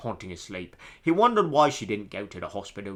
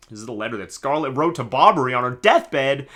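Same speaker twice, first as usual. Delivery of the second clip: put-on British accent; 3 semitones higher, 8 dB louder than usual. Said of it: "my awful British accent".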